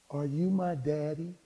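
hushed, slow imitation of a child; imitated small child, drawn out; little girl's soft question. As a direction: ask it small and softly, as a child.

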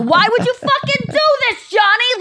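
high, hammed-up Jersey yell; New Jersey accent pretend fight, way up high; mock Jersey accent. To Chris in a play fight, hammed-up Jersey accent. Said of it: "We do it in a New York accent".

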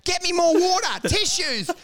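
high mock-emergency orders; urgent calling out. Fake doctor demands supplies in an emergency, urgent calling out. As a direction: call out like a frantic amateur medic.

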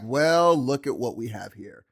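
lightly imitated swagger, dropping low. Quoting Negan's first entrance, swagger. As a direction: drawl it with cocky ease. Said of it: "It was his swagger".

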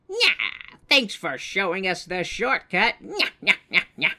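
nyah-nyah it like a playground bully; sing-song taunting. Acted. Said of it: "swoops in to be like".

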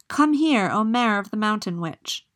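the fish teaching the prince to summon the mare, loud call. Acted. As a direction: call the mare across the water. Calling the mare.

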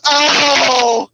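loud drawn-out cry, then slow words; slow mock yell. Imitating an atheist yelling out in bed, slow hammed-up cry. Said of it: "nigga just sound slow".

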